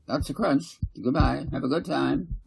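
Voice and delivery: put-on a mum waving her girls off; cheerful mother's goodbye. Mother echoing, saying goodbye.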